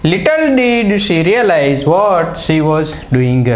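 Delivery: very slow, every word laid out; teacher slowly reads the correct answer sentence aloud; slow dictation. Shown as a demonstration. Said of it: "તો સાચો જવાબ શું બન્યો?".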